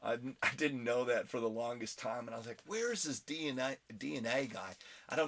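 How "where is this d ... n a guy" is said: lightly put-on Australian accent. Host jokes for followers down under, slight Australian accent. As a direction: slip briefly into an Australian accent. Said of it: "Australian accent all of a sudden".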